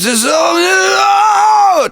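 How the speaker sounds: drawn-out demonic rising scream. Shown as a demonstration. Coach showing clean speaking voice turning demonic, rising distorted scream. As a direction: slide from speech into a long, high distorted scream. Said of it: "somebody that sounds like he's".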